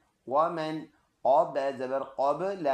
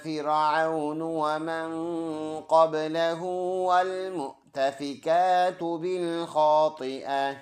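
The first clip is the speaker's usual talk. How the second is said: slow, drawn-out verse recitation; full verse recitation; 3 dB louder, slower than usual. Shown as a demonstration. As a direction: demonstrate the whole verse as it should be recited. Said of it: "full आयत ऐसे पढ़ेंगे". (पूरी आयत तिलावत के अंदाज़ में)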